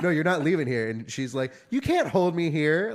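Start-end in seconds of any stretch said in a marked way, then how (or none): 0.0-0.9 1 firm retold command. Security guard blocking her way. 1.7-2.9 2 retold defiant yell, higher, louder and slow; 3 drag it out at her, loud and indignant; 4 imitated shoplifter shouting at the guard, slow and loud.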